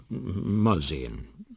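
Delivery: slow, hesitant evasive answer; embarrassed. Acted. Uncle dodges the marriage question, embarrassed. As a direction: stretch it out, mildly awkward. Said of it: "wird immer verlegener".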